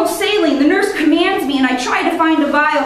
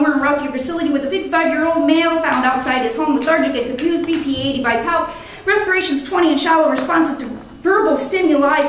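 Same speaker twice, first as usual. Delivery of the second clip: radio report; faster than usual. Acted. Paramedic radio report to hospital.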